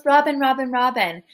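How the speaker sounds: trying to catch the host's ear; calling for attention. Retold or imitated. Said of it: "So he goes".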